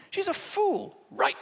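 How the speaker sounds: ordinary talk, nothing marked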